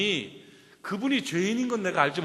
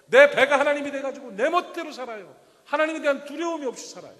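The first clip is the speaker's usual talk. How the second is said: higher, louder preaching build; fervent preaching; 6 semitones higher, 5 dB louder than usual. Acted. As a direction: hammer home the congregation's confusion. Preaching at full force. (열정적으로 외치는 설교)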